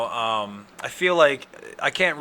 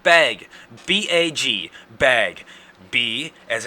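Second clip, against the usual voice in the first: louder, insistent spelling out of bag; exasperated loud; 4 semitones higher, 9 dB louder, slower than usual. Real, not acted. To the listeners, an exasperated loud insistence on bag. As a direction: hammer home the word bag. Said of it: "Why is that".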